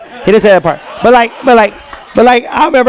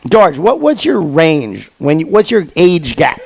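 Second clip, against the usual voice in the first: slow teasing; 2 semitones lower, slower than usual. Real, not acted. Teasing audience member, slow.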